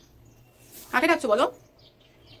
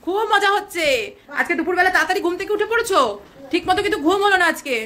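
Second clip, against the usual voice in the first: higher, louder, fast excited chatter; excited baby talk; 4 semitones higher, 3 dB louder than usual. Acted. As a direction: bubble over with birthday excitement for the child. Excited birthday baby-talk to child. (উঁচু জোরালো দ্রুত আদুরে উচ্ছ্বাস)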